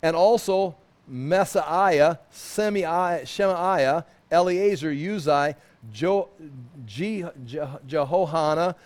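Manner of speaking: slow, careful reading of names; reading a name list. Acted. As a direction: sound out each name deliberately.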